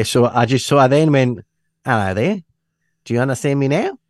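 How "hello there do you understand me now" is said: exaggeratedly understandable put-on accent; put-on non-Scottish accent. Scot making himself understood to friend's Australian daughter, put-on accent. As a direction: switch out of Scottish into a clearer accent. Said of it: "Bilingual".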